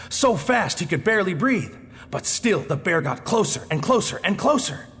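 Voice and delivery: breathless chase storytelling rising in pitch. Shown as a demonstration. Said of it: "I can start talking faster and louder".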